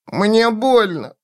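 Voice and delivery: put-on high, slow little-child whimper; whining child. A narrator's reading. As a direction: whine that it hurts, in a child's voice. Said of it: "скулил Зигурд".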